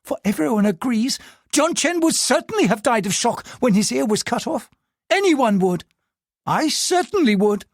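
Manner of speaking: seething. Acted. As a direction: vent her fury to herself. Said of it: "Diane found herself seething".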